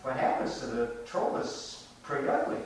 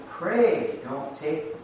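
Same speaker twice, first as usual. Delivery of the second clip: slowly drawn-out "Pray don't take me"; slow pleading; slower than usual. Shown as a demonstration. Pointing out the goat's begging to the listeners, slow plea. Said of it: "Did you hear that?".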